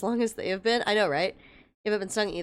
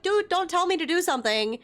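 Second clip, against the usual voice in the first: exasperated; 6 semitones higher than usual. Retold or imitated. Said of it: "I'm like".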